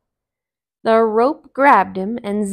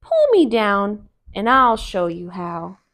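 Brer Rabbit; 5 dB louder than usual. Acted. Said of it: "said Brer Rabbit".

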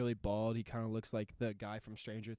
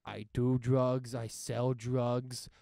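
2 semitones higher, 10 dB louder, much slower than usual. Retold or imitated. Gangster listing sins, retold.

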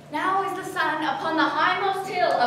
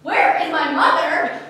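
exasperated; 6 dB louder than usual. Acted. Juliet exasperated with nurse.

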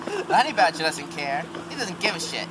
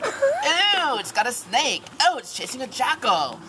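bird voice; 6 semitones higher than usual. Acted. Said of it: "A bird nearby says".

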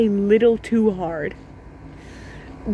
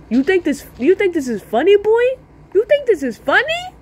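rising, louder mock threat climbing high; menacing question; 8 semitones higher, 4 dB louder than usual. Older kid threatening the laughing boy, building mock fury. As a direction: demand it like a bully getting angrier. Angry kid confronts him.

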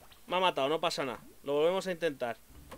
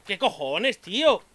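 exasperated; 2 semitones higher, 5 dB louder, slower than usual. Real, not acted. Baffled after death.

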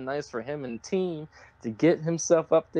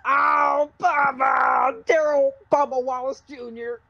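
mock call-out; 7 semitones higher, 6 dB louder, slower than usual. Calling out Bubba in mock scold.

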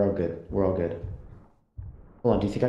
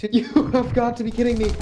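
screaming at a spider; 10 semitones higher, 4 dB louder than usual. Real, not acted. Spider chases him in panic.

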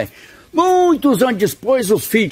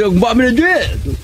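calling out across the hill; 3 semitones higher than usual. Acted. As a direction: call out to the friend far off. Yelling across hillside. (chamando o compadre de longe)

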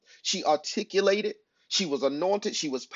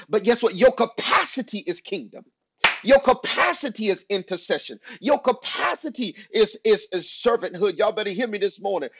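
raised, forceful sermon delivery; emphatic preaching; 3 dB louder than usual. Real, not acted. Preacher urging listeners beyond their hometowns, emphatic preaching. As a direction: drive each point home to the congregation.

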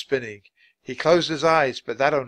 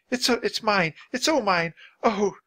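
high, distressed self-blame; near tears; 10 semitones higher, 5 dB louder than usual. A narrator's reading. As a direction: take the blame, almost tearful. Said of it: "She seemed near tears".

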